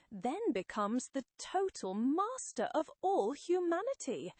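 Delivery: lightly voiced villain building in excitement; gloating Psycho Man. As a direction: announce a plan for world domination.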